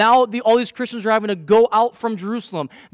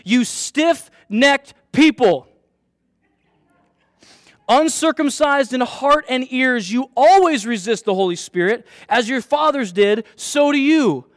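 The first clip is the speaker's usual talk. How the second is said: slow, louder, rising toward the end; bold rebuke; 3 semitones higher, 3 dB louder than usual. Acted. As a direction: hurl the accusation at them slowly. Stephen rebukes his accusers, read aloud.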